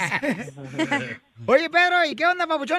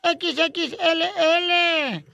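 lightly voiced old lady, pitched higher; old shopkeeper lady; 4 semitones higher than usual. Old lady passing the customer's order on to Marta, lightly acted higher voice. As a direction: raise the pitch, drawing out each letter.

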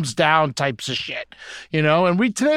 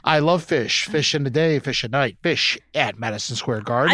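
Dr. Seuss rhyme; 5 semitones lower than usual. Pretend. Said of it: "Doctor Seuss version".

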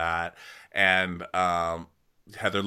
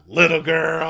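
high, louder teasing rebuke; mock scolding; 8 semitones higher, 8 dB louder than usual. Host teasing Whitney, high mock scold. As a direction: scold like a mock stern elder.

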